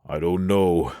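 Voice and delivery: a touch of a sigh on a doubtful reply. Acted. Johnson unsure of the direction, mildly sighed. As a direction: let it out as a mild sigh. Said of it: "Johnson sighed".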